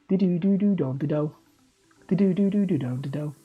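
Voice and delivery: Scouse catchphrase kept near natural pitch. Acted. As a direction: try Scouse without going high. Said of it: "I don't know why I'm going high pitched".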